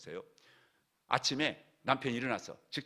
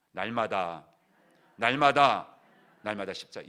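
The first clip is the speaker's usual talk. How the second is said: emphatic refrain; 12 dB louder, slower than usual. Real, not acted. Repeated emphatic preaching refrain.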